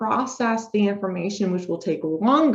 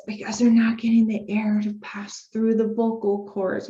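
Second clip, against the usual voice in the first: breathless airy demo. Shown as a demonstration. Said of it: "doesn't have really good breath support".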